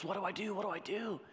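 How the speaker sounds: panicked Simba. Acted. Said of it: "and he goes".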